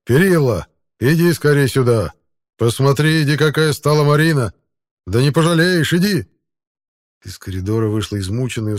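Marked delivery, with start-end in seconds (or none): 0.0-6.3 louder, higher call into the back room. Acted. The baker calling his wife from the hot bakery, loud. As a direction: shout for her to come quickly. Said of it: "закричал вглубь пышущей жаром пекарни".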